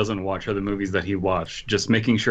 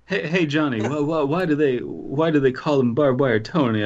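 higher-pitched mock Italian mobster; terrible Italian accent; 4 semitones higher than usual. Mobster asking Johnny about Tony, bad Italian accent. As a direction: stammer it out in a fake Italian accent. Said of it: "my terrible Italian accent".

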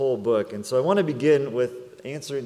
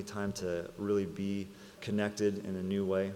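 pastoral prayer; 2 semitones lower than usual. Acted. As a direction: pray gently over the family. Pastor leads congregation in prayer.

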